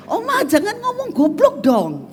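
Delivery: put-on high, whining little-kid plea with a laugh; playfully mock a grandchild scolding his grandma; whiny child voice. Grandson scolding Oma for saying goblok, high whiny child voice. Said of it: "Dia nggak ngomong".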